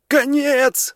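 sudden high cry of "Конец!"; shouted "end". A narrator's reading. Narrator yells the signal to his teammate, high sharp cry. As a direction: yell it out as the signal to run. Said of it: "закричал я".

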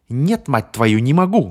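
high, loud shriek rising at the end. Acted. Bonnie shrieks back at Paul, high and loud. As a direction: shriek it out, losing control. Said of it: "взвизгнула девушка".

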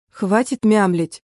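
impatient, slow bark; stern snap at a sister; barked order. A narrator's reading. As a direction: cut off the mumbling sharply. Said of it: "рявкнула я".

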